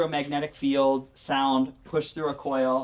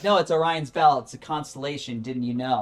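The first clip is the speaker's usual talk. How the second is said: louder, insisting on Orion's belt; insistent know-it-all; 4 dB louder than usual. Retold or imitated. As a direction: correct him like he should know. Friend insists it's Orion's belt.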